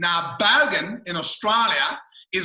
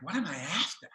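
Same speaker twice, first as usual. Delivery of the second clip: softer, baffled repeat of the question; puzzled echo; 6 dB quieter than usual. Retold or imitated. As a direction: repeat it back, quite lost. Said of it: "because I was completely confused".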